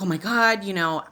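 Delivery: a touch of retold panic; reliving the shock. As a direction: build up loud and high on two. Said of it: "I was like".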